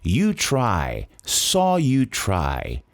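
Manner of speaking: slow drill growing from "Try" to "thought I saw you try"; backward build-up drill. Shown as a demonstration. Teacher shows students a back-to-front pronunciation drill, slow build-up. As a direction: build the phrase from its end, slow and stretched. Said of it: "da frente pra trás".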